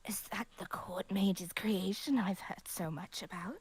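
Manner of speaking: hushed, secretive stranger; whispered character voice. Acted. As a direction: whisper it like a sly outsider. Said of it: "I don't wanna do an old lady voice".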